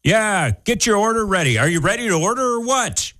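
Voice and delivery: impatient attendant. Acted. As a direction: hurry the customer along, hammed-up.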